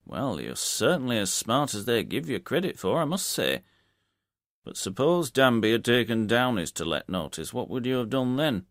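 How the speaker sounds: hearty publican, half-impressed; landlord. Acted. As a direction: bluff landlord, admiring. Landlord voiced in story.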